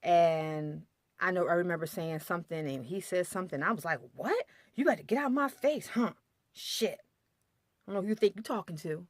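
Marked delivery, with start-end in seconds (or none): 4.2-9.1 high, sassy retold clapback; mock angry snap. Wife mocking her own sassy reply to husband. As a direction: throw attitude back at him, pitched up.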